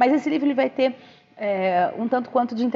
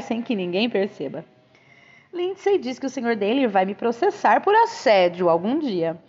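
lively, expressive audiobook reading; story narration; 2 semitones higher than usual. A narrator's reading. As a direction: read the novel aloud with animated phrasing. Reads a novel aloud.

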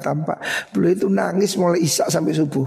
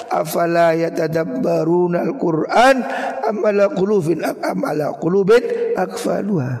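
Quran recitation. Acted. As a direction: recite the warning verse with force.

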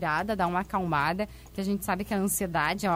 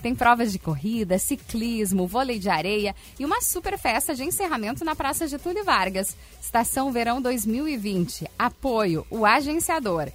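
hard sell ad. Acted. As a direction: hype the summer event on air. Event promo read.

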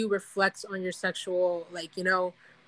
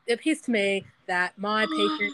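deliberately bad British accent; measured, mock-formal bad British accent; Sigmund Freud. Freud presenting his patient to scientists, bad British accent. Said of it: "I'm gonna do a British one".

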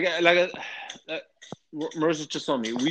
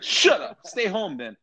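mock irritated retort; 2 semitones higher than usual. Man retorts to complaining peanut-allergy families, mock annoyed. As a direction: snap back at the complainers, half joking.

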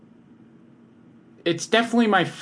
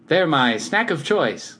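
slow, emphatic product pitch; hard sell ad; 4 semitones higher, slower than usual. Acted. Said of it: "pretending I'm in a commercial".

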